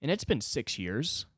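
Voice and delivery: put-on a touch of a young comic losing it; hammed-up young comic despairing; whiny young comic. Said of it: "a twenty-three-year-old going".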